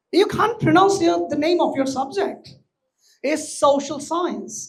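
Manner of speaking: very slow, deliberate social science; careful model pronunciation. Shown as a demonstration. Teacher correcting students, slow exaggerated pronunciation. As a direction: spell the sounds out for the class. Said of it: "বলছে সোশ্যাল সায়েন্স".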